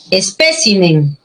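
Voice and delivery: ESPÉCIMEN slowly, stressed on PÉ; stress on antepenult. Shown as a demonstration. Teacher models an esdrújula word, stress on antepenult. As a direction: draw out ESPÉCIMEN with weight on PÉ. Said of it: "esdrújula".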